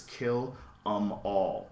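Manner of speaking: "kill 'em all" drawn out slowly; slow and deliberate. Retold or imitated. Reading out a tattoo's exact wording, "kill 'em all" slow and deliberate. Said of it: "E M all".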